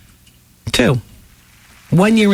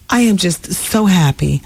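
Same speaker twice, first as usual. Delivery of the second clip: fake happy; 2 semitones higher, slower than usual. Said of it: "nodding no".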